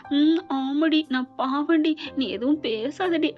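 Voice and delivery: lightly mimicked bashful woman, drawn-out ending; mock-shy, teasing imitation of a lady; coy lady imitation. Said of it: "ஒரு lady சொல்ற மாதிரி அப்படியே வெக்கப்பட்டுக்கிட்டு". (வெட்கப்படும் பெண் போல லேசாக நடித்து)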